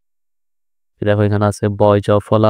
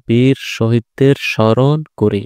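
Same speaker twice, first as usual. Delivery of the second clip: slow model reading; slower than usual. Shown as a demonstration. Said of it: "স্মরণ দিয়ে বাক্য কি হবে?".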